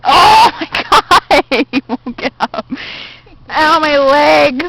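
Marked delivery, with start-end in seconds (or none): 3.5-4.6 slow pained groan of cramp; getting a leg cramp. Real, not acted. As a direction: wince through a leg cramp. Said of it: "my leg is cramping".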